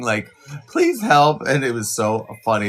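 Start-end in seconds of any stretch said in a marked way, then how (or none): 0.7-1.4 high, loud pleading dog whine; mock dog whining for help. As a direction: beg like a whimpering dog.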